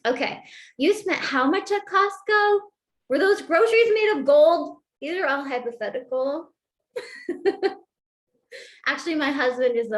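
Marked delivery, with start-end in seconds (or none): 0.8-4.8 higher, louder mock indignation; mock outrage. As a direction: play the exasperated partner over the bill. Acted partner scolding about spending.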